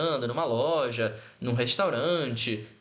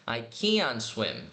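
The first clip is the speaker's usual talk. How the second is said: slow, careful I can swim; slow model sentence; slow clear demo; 5 semitones lower, much slower than usual. Shown as a demonstration. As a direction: say I can swim slowly, each word clear. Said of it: "Ou se quiser marcar o T".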